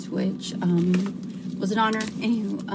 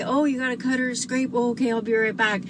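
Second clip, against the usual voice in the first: mom's fib; 3 semitones higher than usual. Retold or imitated. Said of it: "would lie to us and say".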